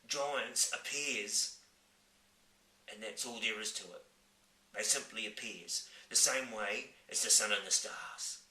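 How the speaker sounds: giant voice. Acted. Giant explains.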